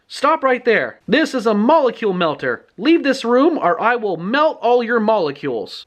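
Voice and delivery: mock-heroic ultimatum; commanding threat. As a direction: imitate a girl holding off a villain. Libby bluffs with toy gun.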